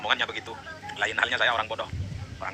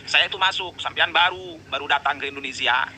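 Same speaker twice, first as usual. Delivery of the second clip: louder, higher indignant retort; heated protest; 5 semitones higher, 3 dB louder than usual. Real, not acted. Rival preacher snapping back about who joined first. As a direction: insist hotly that he came first. Heated argument over seniority.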